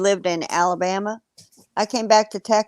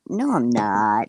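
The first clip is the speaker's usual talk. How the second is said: denial; 9 semitones lower, slower than usual. Retold or imitated. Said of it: "I'm like".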